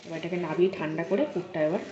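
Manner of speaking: ordinary talk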